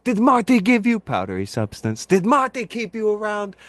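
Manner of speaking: hammed-up angry Iron Sheik shout; Iron Sheik yelling. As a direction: yell it as the Iron Sheik, outraged. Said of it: "but I said".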